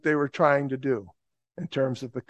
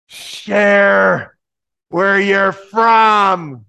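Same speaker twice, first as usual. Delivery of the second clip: slow, drawn-out yell, higher and louder; heckler's shout; 4 semitones higher, 8 dB louder, much slower than usual. Retold or imitated. Big heckler in the crowd challenges the preacher, slow loud shout. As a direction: bellow it up at the man on the van.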